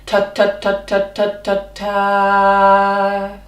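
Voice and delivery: short detached ta ta ta, each cut off crisply; staccato ta. Shown as a demonstration. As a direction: spit out every ta short and separate. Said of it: "one more time".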